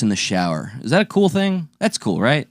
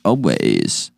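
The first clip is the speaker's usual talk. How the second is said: mock prim spouse; 8 semitones lower than usual. Playing a prim spouse figure.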